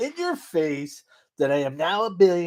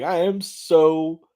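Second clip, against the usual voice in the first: mock sobbing; 3 semitones higher, 3 dB louder, slower than usual. Shown as a demonstration. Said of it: "sobbing apology".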